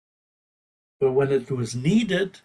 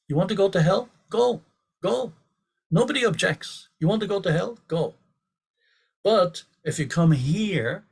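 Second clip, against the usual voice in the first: higher, heated dismissal; fired up retort; 3 semitones higher than usual. Retold or imitated. Guru tells hecklers to leave, higher and fired up. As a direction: tell them to go, with rising heat. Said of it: "Prabhupada was fired up".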